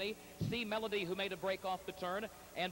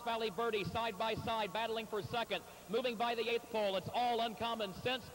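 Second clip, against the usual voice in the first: louder, rising stretch-run excitement; excited finish call; 2 semitones higher, 4 dB louder than usual. Real, not acted. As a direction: call the home stretch with building energy. Race caller calling the finish.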